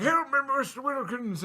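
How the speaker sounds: high-pitched imitation plea; mock cry for help. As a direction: call out desperately, hammed up.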